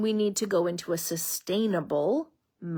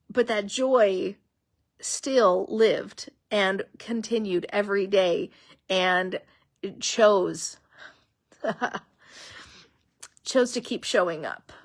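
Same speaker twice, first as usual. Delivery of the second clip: slow, halting, moved to the edge of tears; emotional; slower than usual. Real, not acted. Host recalling her own journey, real emotional slowdown. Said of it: "I'm getting emotional".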